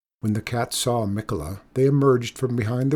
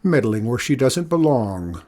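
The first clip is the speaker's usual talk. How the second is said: rude; 3 dB louder than usual. Acted. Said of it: "replied the man rudely".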